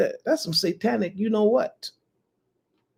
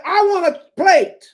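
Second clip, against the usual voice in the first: put-on greedy girl's demand; 2 semitones higher than usual. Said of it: "She said".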